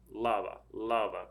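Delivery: "lava" stressed on the first A. Shown as a demonstration. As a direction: lean on the LA in "lava". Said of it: "The stress is over that A".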